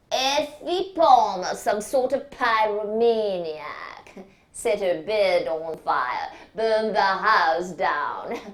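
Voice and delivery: a lightly voiced surgeon reeling off the case; dismissive surgeon. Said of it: "said Mister Jessup Brown".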